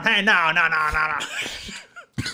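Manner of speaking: a light, half-hearted Southern rooster drawl; lightly voiced cartoon rooster scolding a boy; terrible Foghorn Leghorn. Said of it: "The terrible foghorn".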